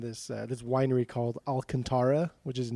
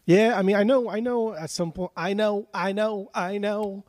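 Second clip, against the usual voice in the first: high exasperated; 7 semitones higher, 5 dB louder than usual. Real, not acted.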